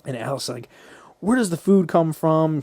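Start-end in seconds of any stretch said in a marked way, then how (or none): 1.2-2.6 louder, higher mock challenge; challenging retold question. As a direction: act out a demanding question. Retold dinner-table scene, Alice challenging.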